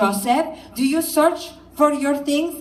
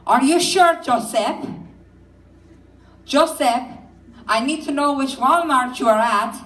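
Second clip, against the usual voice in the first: worried mother; 3 semitones higher than usual. Retold or imitated. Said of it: "Joseph ... he's like, "Well, Mom".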